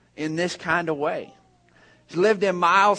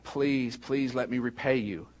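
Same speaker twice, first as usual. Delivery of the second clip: low, subdued begging; understated, soft entreaty; retold soft plea; 5 semitones lower, 7 dB quieter than usual. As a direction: quietly imitate a grateful mother's plea. Grateful mother begs to repay.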